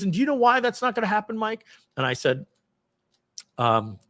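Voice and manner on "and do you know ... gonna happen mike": higher, fast needling question; taunting boss. Retold or imitated. Boss cornering Mike about moonlighting, high and fast. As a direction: press Mike hard. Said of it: "And he goes".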